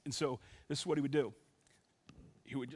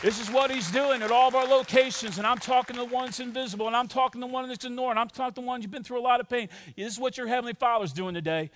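emphatic, energised sermon delivery; preaching; 5 semitones higher, 6 dB louder than usual. Acted. Pastor encouraging every church location, preaching. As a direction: press the promise onto the congregation.

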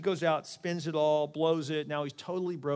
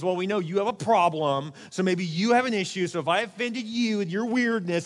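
accusing non-apology; 3 semitones higher, 5 dB louder than usual. Acted. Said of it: "what you're saying is".

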